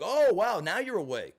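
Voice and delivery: sarcastic. Retold or imitated. Mocking after her outburst.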